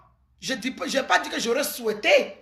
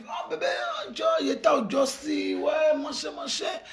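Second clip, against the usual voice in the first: mock smooth boyfriend; 2 semitones higher, 4 dB quieter than usual. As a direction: sweet-talk the girl, then trail off. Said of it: "Il arrive".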